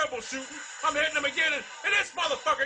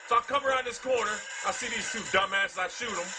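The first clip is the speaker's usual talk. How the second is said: raging gamer; 2 semitones higher than usual. Real, not acted. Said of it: "raging at Call of Duty".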